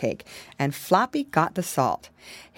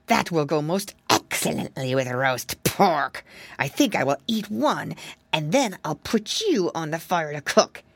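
smug fox; 2 semitones lower than usual. Acted. Fox gloating to piglet.

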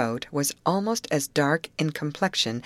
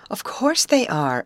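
raised pitch, emphatic retort; quick exclamation; 6 semitones higher, 4 dB louder than usual. A narrator's reading. Molly answering frightened Grace at once, quick exclamation. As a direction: exclaim it with brisk assurance. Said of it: "exclaimed Molly quickly".

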